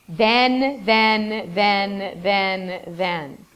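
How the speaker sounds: tedious repetition. Retold or imitated. Teacher mimicking students' repetitive writing, droning. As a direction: drone the word over and over. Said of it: "Students often will use".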